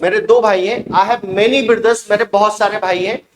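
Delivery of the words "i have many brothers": slow model sentence. Shown as a demonstration. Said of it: "teacher models plural sentence".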